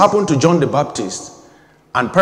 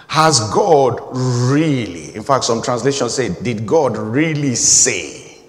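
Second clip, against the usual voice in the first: very slow, God leaned on each time; stress on God; slower than usual. Shown as a demonstration. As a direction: press the word God slowly. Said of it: "I'm making this emphasis".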